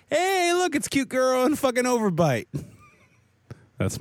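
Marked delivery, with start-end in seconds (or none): 0.1-2.5 mock pickup line. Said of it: "and you go like".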